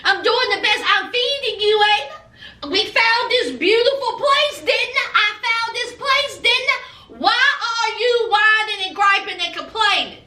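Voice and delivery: lightly voiced Paul protesting; defensive Paul voice. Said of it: "And Paul said".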